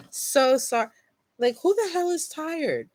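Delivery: high, giggly so sorry; giggly apology. Real, not acted. Still giggling at yawning.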